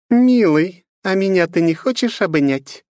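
loud, high demonic menace; voice from the underworld. Acted. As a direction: sound like a voice from hell. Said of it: "прозвучал голос, как из преисподней".

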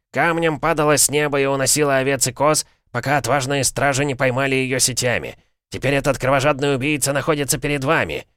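high, rousing crowd hype; showman barker. A narrator's reading. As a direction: sell the danger to the crowd. Orator hyping the crowd. (азартный ярмарочный зазывала)

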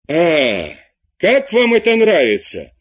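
teacher yells at a lazy pupil; exasperated outcry. Acted. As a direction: spit out the insult slowly. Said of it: "вскричал аббат".

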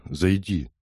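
understated plaintive request; a touch of pleading, gently put; plaintive murmur. A narrator's reading. Лиза asking Том inside, mildly plaintive. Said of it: "она жалобно пролепетала".

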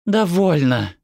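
high, firm interruption; cutting in. A narrator's reading. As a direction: cut them off sharply with one word. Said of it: "прервала её Декла".

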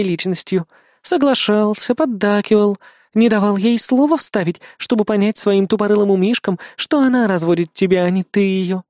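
resigned. Acted. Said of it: "обречённо ответила помощница".

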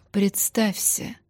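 slow, regal command; grande dame. Acted. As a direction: command like a stately empress. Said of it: "величественно произнесла императрица".

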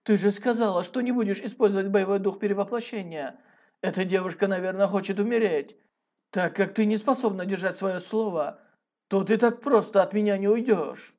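loud furious yelling; berserk rage. A narrator's reading. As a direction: shout it in a rage. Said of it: "гневно кричал".

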